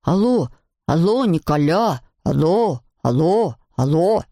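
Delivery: put-on drawn-out, swooping boyish calling; shouting into phone. A narrator's reading. Alceste calls his friend Nicolas, drawn-out phone shouting. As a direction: holler down a line, stretching each word. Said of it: "Альцест и правда кричал очень громко".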